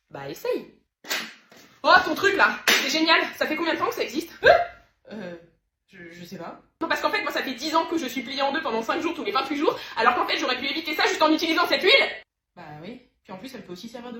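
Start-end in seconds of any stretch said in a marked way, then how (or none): 1.8-4.5 loud, high outburst; explosive amazement. Acted. Faux enthousiasme furieux devant l'huile. 6.8-12.1 agitated rant rising to a shout; outraged realisation. Acted. Découvre qu'elle a souffert pour rien.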